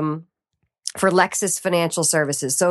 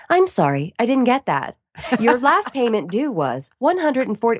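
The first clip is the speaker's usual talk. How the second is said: automated phone voice; 4 semitones higher than usual. Retold or imitated. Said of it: "as the automated voice".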